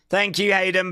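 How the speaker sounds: breathy unvoiced whisper. Shown as a demonstration. Repeating his thanks to the ref as a whisper.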